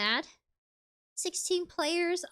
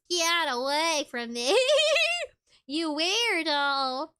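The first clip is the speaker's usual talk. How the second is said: slow, flat grumpy Squidward; slower than usual. Retold or imitated. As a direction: drag it out like Squidward. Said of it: "Like a Squidward voice".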